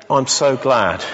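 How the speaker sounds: hoarse, creaky voice catching on the words. Real, not acted. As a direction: speak through a creaky, tired throat. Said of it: "my creaky voice isn't quite doing it".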